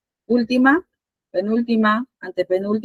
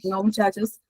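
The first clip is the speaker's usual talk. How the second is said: whisper; 4 dB quieter than usual. Real, not acted. Teacher hushes the class.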